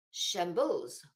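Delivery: Shambles in a playful mock French accent, vowel nasal, ending /oʊz/. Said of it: "It sounds French".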